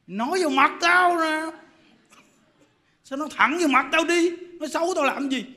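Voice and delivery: bristling at gossip behind her back; angry complaint. Retold or imitated. Angry woman complaining to monk. (giọng bực tức, to và cao)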